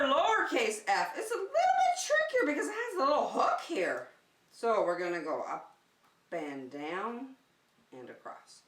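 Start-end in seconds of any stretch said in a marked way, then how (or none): 1.2-4.1 laughing. Real, not acted. Teacher laughs explaining hook.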